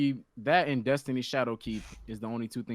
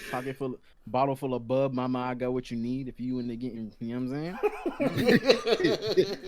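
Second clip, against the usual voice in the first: A rapper impression. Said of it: "try to sound like fifty Cent".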